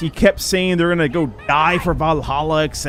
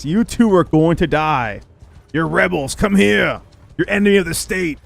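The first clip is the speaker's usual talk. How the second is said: mock Sturgian taunt; 2 semitones higher than usual. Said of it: "will yell at you and insult you".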